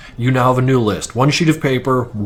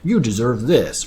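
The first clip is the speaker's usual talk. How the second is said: patronizing. Retold or imitated. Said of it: "it gets real fucking patronizing".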